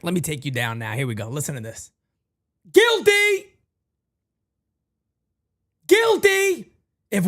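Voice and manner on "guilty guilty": high, loud guilty verdict; mock verdict shout. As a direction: bellow it like a judge. Host delivers verdict on caller.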